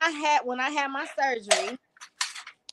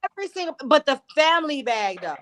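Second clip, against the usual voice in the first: high incredulous mock question; 4 semitones higher than usual. Friend brings too many chips, high incredulous questioning. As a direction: imitate yourself baffled at the chips. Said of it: "I'm like".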